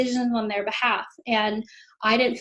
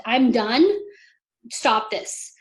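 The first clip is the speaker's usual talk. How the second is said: retold firm demand; much slower than usual. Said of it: "my child's screaming and I'm crying".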